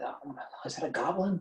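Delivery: breathy unvoiced whisper from the crowd; hushed, curious whisper. Villager whispering to neighbour in awe, whispered. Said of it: "different little whisperings".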